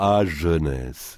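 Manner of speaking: slow jovial sigh; fond and slow, jovially. Acted. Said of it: "dit-il jovialement".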